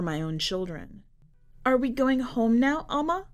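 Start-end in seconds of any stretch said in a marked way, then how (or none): 1.6-3.3 put-on higher little boy's question; a hopeful kid asking; child voice. Son asks mother if they are going home.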